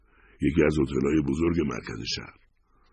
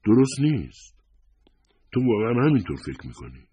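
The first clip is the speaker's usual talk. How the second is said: high-pitched, emphatic reproach; reproachful wife, pitch raised; 7 semitones higher, 4 dB louder than usual. A narrator's reading. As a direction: scold in hurt disbelief, voice lifted. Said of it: "نگاهی سرزنشبار در چشمانش بود".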